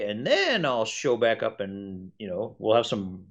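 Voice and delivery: a clever dragon sizing them up; sensible old dragon. Retold or imitated. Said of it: "size this group up fairly quickly and go".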